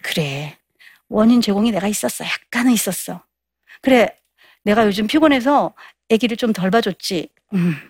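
conceding softly. Acted. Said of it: "약간 인정해 주는 거야".

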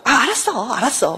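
imitating a dismissive husband's hollow agreement; insincere agreement. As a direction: brush it off, high then dropping. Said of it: "진정성을 보여주지 않고".

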